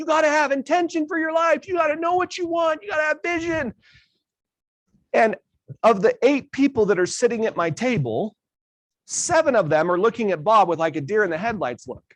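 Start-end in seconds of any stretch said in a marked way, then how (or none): 0.0-3.7 yelling, higher pitch. Retelling what a speaker on stage told the audience, imitating someone yelling. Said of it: "he'd be yelling".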